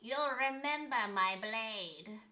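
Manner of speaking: mock-grave game character; a hint of a dramatic warrior; sarcastic impression. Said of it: "me trying to do an impression".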